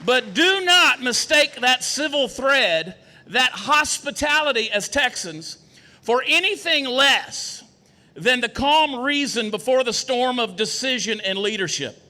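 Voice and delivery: emphatic oratory, key words slowed and set apart; formal stump speech. Acted. Candidate warning not to mistake Texan hospitality, emphatic stump oratory. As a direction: build solemn resolve in deliberate phrases.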